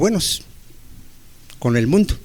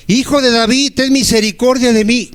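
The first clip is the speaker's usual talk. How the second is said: pleading blind man; 6 semitones higher than usual. Acted. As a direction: beg for mercy, stretching each word. Repeats the blind man's plea.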